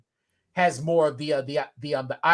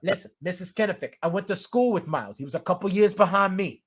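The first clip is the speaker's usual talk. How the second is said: lightly put-on Boston accent; Boston-accented movie tough talk; Matt Damon. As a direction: play a Boston local in dialogue. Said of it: "Matt Damon playing rugby against the firefighters".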